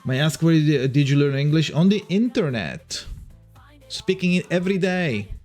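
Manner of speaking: ordinary talk, nothing marked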